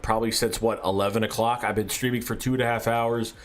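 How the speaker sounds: talking around a chew in the mouth; chewing tobacco with a dry throat. Real, not acted. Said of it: "I've got a chew in my mouth".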